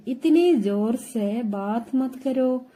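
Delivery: slow, careful Hindi phrase, each word laid out; slow teaching model. Shown as a demonstration. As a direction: spell it out slowly for the learner. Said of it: "teacher models Hindi phrase slowly".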